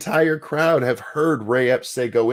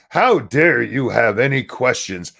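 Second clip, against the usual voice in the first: indignant mock; 4 dB louder than usual. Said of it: "they're like".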